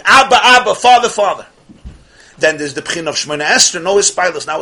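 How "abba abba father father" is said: louder, higher cry to a father; yearning scream. Retold or imitated. Worshipper in prayer cries out to God, yearning shout. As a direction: call out longingly, as if straining to reach him. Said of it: "I'm screaming".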